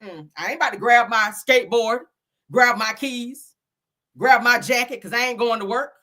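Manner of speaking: half-sung impression of a soul singer; playful soul singer riff, lightly voiced. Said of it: "In my soul singer voice".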